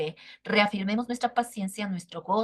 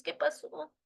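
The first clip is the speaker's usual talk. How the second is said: voice of God; 5 semitones higher than usual. Retold or imitated. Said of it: "Y entonces dice Dios".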